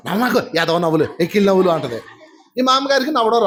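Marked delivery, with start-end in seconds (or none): 0.1-1.7 lightly voiced nagging granny; a hint of a scolding mother-in-law; scolding old woman. Old woman scolding children for laughing, lightly mocked. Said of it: "ఈ ముసలిదేమో".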